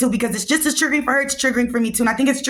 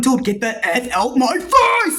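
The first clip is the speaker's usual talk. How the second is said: retold snap; slower than usual. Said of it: "all I remember is going".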